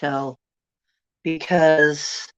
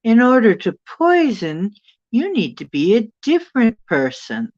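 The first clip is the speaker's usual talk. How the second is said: higher, louder mock British woman; a British lady's smooth denial, pitched up; imitating British accent; 7 semitones higher, 6 dB louder than usual. Dream woman explains herself to the crowd in a British accent. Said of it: "like, a British accent".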